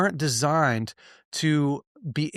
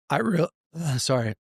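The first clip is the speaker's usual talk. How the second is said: real catch in the voice, not crying; 2 semitones higher than usual. Real, not acted. Speaker apologizing for his own voice, voice catching. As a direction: voice briefly gives out mid-word, then apologize. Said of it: "That's just my voice".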